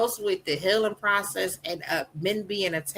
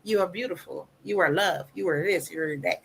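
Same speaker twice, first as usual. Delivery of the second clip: affirming; 4 dB quieter than usual. Retold or imitated.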